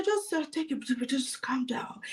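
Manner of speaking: soft whispered reassurance; calming whisper. Shown as a demonstration. Coach calming a nervous new seller, soft whisper. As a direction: whisper to calm a panicking client down. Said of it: "calming the listener".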